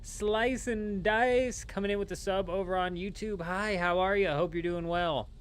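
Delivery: high, singsong welcome; high-pitched greeting. Real, not acted. Streamer thanks a new sub on YouTube, high-pitched greeting.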